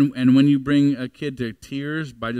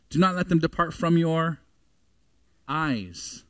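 usual speaking voice

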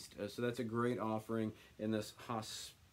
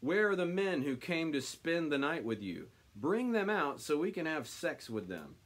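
raised, higher, louder demand; mob shouting; 5 semitones higher, 3 dB louder than usual. Acted. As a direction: call out like an angry crowd. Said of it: "they shouted to Lot".

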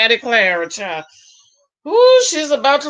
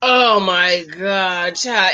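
exasperated; 4 semitones lower, much slower than usual. Real, not acted. Exasperated reaction.

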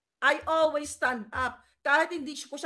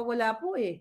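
fake polite; 3 semitones lower than usual. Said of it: "Kunyari, bait-baitan ako".

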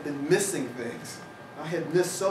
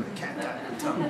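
laughing; 10 semitones higher, faster than usual. Real, not acted. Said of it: "I don't know where that expression came from".

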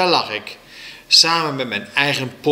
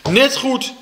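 high, loud spiteful retort; riep; 13 semitones higher, 5 dB louder than usual. A narrator's reading. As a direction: call it out angrily. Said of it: "riep ik". (boos geroepen)

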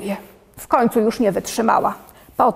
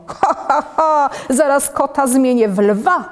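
hammed-up laughing cry, pitched up; mischievous laugh; 4 semitones higher than usual. Doodle laughs at turning his sister's cat into a lion, mock gleeful. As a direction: cackle with mischief like a naughty doodle. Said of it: "Wrzasnął gryzmoł".

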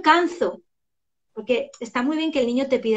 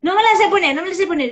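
put-on whining child; 6 semitones higher, 7 dB louder, faster than usual. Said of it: "porque yo les hago quitarse".

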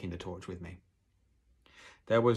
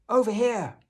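very high, loud holler; calling out; 14 semitones higher, 11 dB louder than usual. A narrator's reading. Hidden father guiding his son to him, calling out. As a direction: holler to guide someone over. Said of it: "the voice called out".

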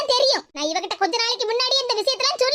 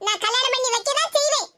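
higher, scolding elder; old mother-in-law; 4 semitones higher than usual. Acted. The grandmother scolds her daughter-in-law for making the girl cry.

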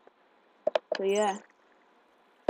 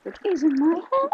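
very high voice; 12 semitones higher, slower than usual. Real, not acted. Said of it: "now I sound like a little girl".

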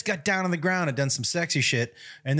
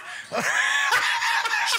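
shrieking laugh. Real, not acted. Watching his own clip, a high shrieking laugh.

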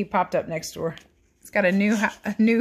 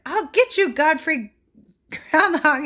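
high, loud threatening call; hammed-up storybook threat; villain shout; 10 semitones higher, 6 dB louder than usual. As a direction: bellow it after the fleeing groundhog. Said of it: "he shouted".

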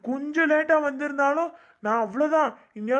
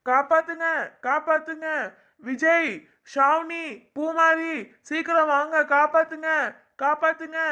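panicked higher calls for help; calling for help; 4 semitones higher than usual. Acted. Trapped boy begging his friends to rescue him, panicked cries. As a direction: yell for the friends to come save you.

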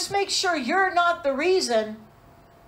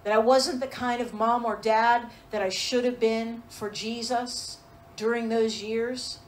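lower, softened voice of acted regret; heartbroken confession; 4 semitones lower, 4 dB quieter than usual. Parent on their knees before the Lord, understated heartbroken confession. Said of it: "you cry before the Lord and say".

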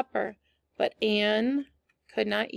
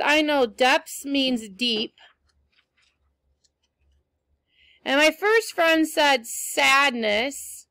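slow teaching; 4 dB louder, slower than usual. Shown as a demonstration. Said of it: "teacher building the meaning".

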